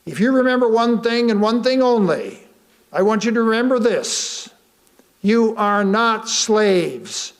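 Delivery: a hint of a solemn preacher, slowing at the end; preacher's charge. White preacher addressing the enslaved community, lightly voiced solemn preaching. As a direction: deliver it like a sermon's key line. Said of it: "looked her ... and said".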